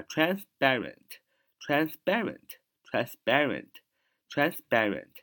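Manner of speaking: transparent said slowly, split as trans-parent; slow "trans", brief break, then "parent" in transparent; broken into parts. Shown as a demonstration. Teacher breaking down transparent for learners, slowly split into trans and parent. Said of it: "透过我这个断句".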